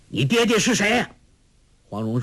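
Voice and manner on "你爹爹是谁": high, sharp angry demand. Acted. Furious farmer demands who her father is, angry. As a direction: bark out the question. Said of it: "那农夫怒道".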